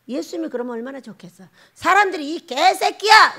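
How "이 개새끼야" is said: loud, high, drawn-out curse; mock abusive yell; acted insult shout. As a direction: hurl the insult at full voice.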